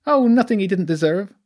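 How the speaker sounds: high creature voice, scornful; sneering. Acted. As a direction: sneer it out with contempt. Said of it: "the creature sneered".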